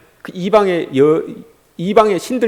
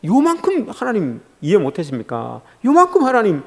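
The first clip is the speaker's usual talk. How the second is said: wheedling complaint; 5 dB quieter than usual. Acted. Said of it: "이거예요".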